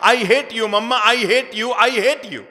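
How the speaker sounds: put-on loud, high, slow furious child; angry child yelling I hate you; angry shout. A narrator's reading. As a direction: scream it at mother. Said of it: "बच्चा जोर से चिल्लाने लगा".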